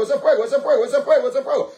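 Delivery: laughing exultation. Real, not acted.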